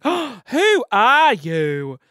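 slow, amazed gasp of a question; mock surprise. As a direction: act stunned by a stranger. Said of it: "I'm like, gasps".

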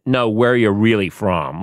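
pressing, pointed demand; glaring insistence. Retold or imitated. Customs officer questioning the friend's origins, glaring insistence. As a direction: push the question with a mock glare. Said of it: "Like, glaring at her".

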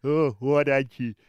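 lightly voiced prime minister on a sex line; John Howard impression. Host doing John Howard calling a sex line, lightly voiced. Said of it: "do a little bit now for us".

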